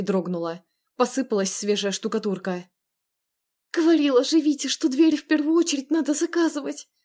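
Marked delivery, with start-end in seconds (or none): 3.7-6.9 frantic exclamation. Acted. Sister frantic as the door shakes, exclamation. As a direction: blurt it out in a frantic panic.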